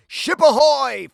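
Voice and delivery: high, loud hail; spooky hail from the mist; called out. A narrator's reading. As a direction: call across the fog. Ghost ship hailed.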